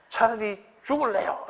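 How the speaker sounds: high, loud mock-desperate outburst; melodramatic child tantrum. Middle-schooler protesting an allowance cut, hammed-up loud tantrum. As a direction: wail the threat like an overdramatic kid.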